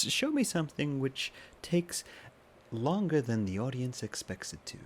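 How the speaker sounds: lightly robotic mock American voice, slowed down; hint at a robotic American reel voiceover; robotic American accent. Quoting an Instagram reel trend, light robotic American accent. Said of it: "trying to do this robotic American accent".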